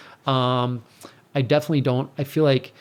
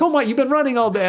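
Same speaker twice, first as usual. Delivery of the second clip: imitated worried retort; 10 semitones higher, 4 dB louder, faster than usual. Retelling partner's worried reply.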